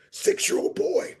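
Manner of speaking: very high, drawn-out cry; anguished disbelief. Real, not acted. Speaker lamenting cruelty to a child, high anguished disbelief. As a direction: voice leaps high, slow and pained.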